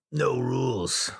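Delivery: slow, drawn-out no rules; mock party hype. Dad mocking his ex's permissive home, sarcastic drawl. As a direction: savor it sarcastically.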